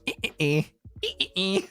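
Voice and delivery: short repeated "eh" sounds in a running joke; imitated "eh" noise. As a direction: mimic the inside-joke noise between laughs. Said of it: "me and Vox would just go".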